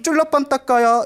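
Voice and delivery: P=A; Buddha calling in passing. Acted. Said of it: "이러면서 다 보는데".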